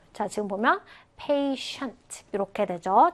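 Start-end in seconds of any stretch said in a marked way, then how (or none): 1.2-2.2 "patient" said PAY-shunt, sh in the middle. Shown as a demonstration. Teacher shows students the word, "patient" with a sh sound. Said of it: "슈 발음했어요".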